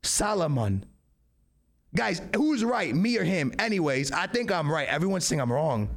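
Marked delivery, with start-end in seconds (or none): 0.0-0.8 "Salomon" as sah-lo-mon, L sounded. Shown as a demonstration. Answering his friend, "Salomon" with the L sounded. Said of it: "There's an L in it".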